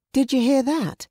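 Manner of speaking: sudden alarm at a noise. Acted. Mother startled by a sound in the trees, alarmed.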